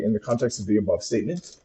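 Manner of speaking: slow, careful dictation to a voice assistant; dictating. Shown as a demonstration. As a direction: spell it out word by word for the machine. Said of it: "I'm gonna say".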